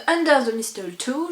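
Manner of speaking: English title in a French accent; self-conscious French-speaker's English accent. Real, not acted. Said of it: "je le prononce bien avec mon super accent".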